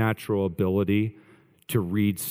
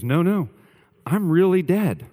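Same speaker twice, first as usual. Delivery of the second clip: high, loud insistence that he's dead; mock-earnest claim to be dead; insistent protest; 8 semitones higher, 4 dB louder than usual. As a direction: protest a little louder, pitched up.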